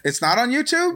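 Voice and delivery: high, surprised question through a laugh. Real, not acted. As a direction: disbelief with a laugh. Surprised at news.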